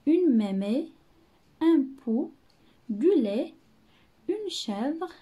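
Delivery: each word called out loud; loud word-by-word reading; read aloud clearly. Shown as a demonstration. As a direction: call the words out to the class. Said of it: "reading words to pupils".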